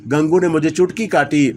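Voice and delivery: plain reading voice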